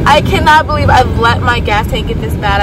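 panicked, breathless; gasping in a panic; hyperventilating. Real, not acted. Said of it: "I'm literally hyperventilating right now".

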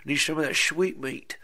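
a hint of a husband calling for his supper; imitating the husband. Husband greets his wife asking for meat, lightly voiced. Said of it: "he's like".

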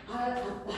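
알 drawn out, then a soft, short 아따; pronunciation demo. Shown as a demonstration. Teacher repeating the pronunciation for students, sounded out in parts. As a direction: sound out 알, then drop softly onto 아따. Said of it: "라고 지금 발음되거든".

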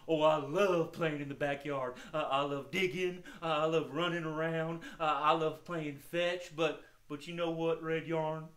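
lightly voiced hound, relishing each pleasure; a hint of an easygoing dog; friendly puppet dog. Puppet dog tells host what he loves, lightly voiced.

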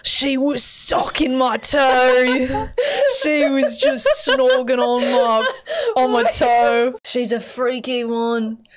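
slow, cracking up through it; mock him while laughing; laughing imitation. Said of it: "he's like".

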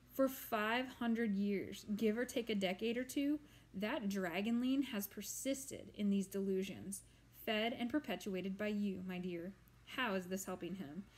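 put-on lofty, lecturing old monster voice; ancient swamp monster. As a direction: hold forth like a weary old creature. Voices monster Glurk at length.

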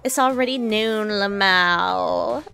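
lightly voiced Valley Girl streamer; Valley Girl accent. Streamer voices K-Angel to P-chan, light Valley Girl accent. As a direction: read it with a touch of Valley Girl. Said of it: "I'm gonna do the Valley Girl accent just for her".

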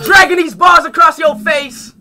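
slow, high hammed-up shout; loud comic yell stretching each word; mock shout. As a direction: bellow it out as a joke.

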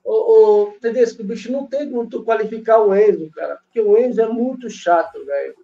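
distant, echoey phone audio; phone held away. Real, not acted. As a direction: speak far from the mic, echoing. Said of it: "você tá sem fone? ... senão dá muito eco".

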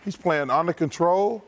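winded, slow between breaths. Real, not acted. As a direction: talk while still catching your breath. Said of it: "You are out of breath".

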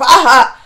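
loud mocking laugh burst; imitated villain laugh. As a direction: mimic a hated villain's short laugh. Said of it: "I can't stand his laugh".

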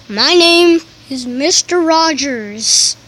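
a loud pretend-teacher introduction; mock shouting. Teacher introducing himself to the class, loud. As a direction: announce the name loudly to the class. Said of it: "stop shouting exactly like me".

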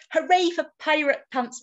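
a light hooray for the team; cheering. A narrator's reading. Friends celebrating the found pants, light cheer. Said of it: "we cheered".

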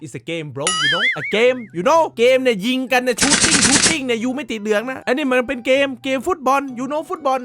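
put-on slow, showy Thai-English accent, mixing in English; mock English accent. Explaining to viewers it's just a game, in a slow mock English accent. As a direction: hams up a foreign English accent, drawn out. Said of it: "กูชอบสำเนียงกูมากเลย".

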